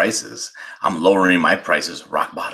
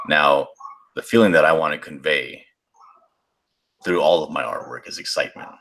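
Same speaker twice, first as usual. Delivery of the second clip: smoker's rasp. Pretend. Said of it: "my sixty-year-old smoker's voice".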